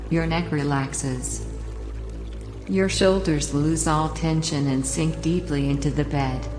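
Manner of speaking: calm, unhurried relaxation guide voice; sleep story narrator. Acted. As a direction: guide the listener down into the bed. Leads a relaxation induction.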